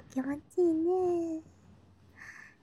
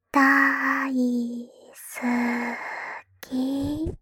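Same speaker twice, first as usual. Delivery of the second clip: 大好き blurted out louder; bursting confession; 6 dB louder, much slower than usual. Acted. Little sister confessing to her brother, louder outburst. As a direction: throw 大好き out with a sudden swell. Repeats daisuki, soft then loud.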